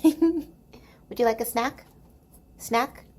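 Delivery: high, slow coaxing to the dog. Real, not acted. Offering the dog a snack in high baby talk. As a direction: tempt the pup with a treat.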